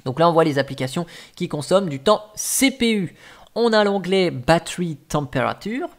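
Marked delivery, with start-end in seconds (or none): 4.3-5.9 English words in a thick French accent. Real, not acted. Tutorial host reading the tab name, French-accented English. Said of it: "avec le superbe accent anglais".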